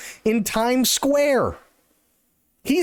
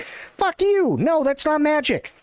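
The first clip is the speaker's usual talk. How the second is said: high, hammed-up dismissive retort; mock scornful retort; mock scoffing; 5 semitones higher than usual. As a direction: throw it back at the magician. Retorting to magician.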